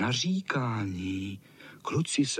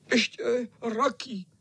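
very high, whiny sick-cat voice; whimpering cat; 12 semitones higher, slower than usual. A narrator's reading. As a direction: whine it like a poorly old tomcat. Cat answers in same voice.

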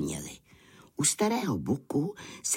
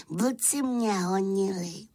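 complaining little lamb; 9 semitones higher than usual. Acted. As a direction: explain yourself slowly in a high little voice. Lamb explains himself to shepherd. (beránek si protáhle stěžuje vysokým hláskem)

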